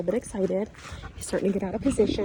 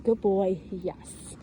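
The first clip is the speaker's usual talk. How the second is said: calm praise; much slower than usual. Shown as a demonstration. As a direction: praise him calmly, no excitement. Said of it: "Don't get overexcited with your voice".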